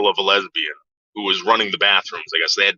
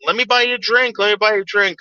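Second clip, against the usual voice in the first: high-pitched mock pick-up voice; pushy bar flirt; 10 semitones higher than usual. Stranger offers the teller a drink, high mock flirting voice. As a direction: imitate an insistent admirer, pitched way up.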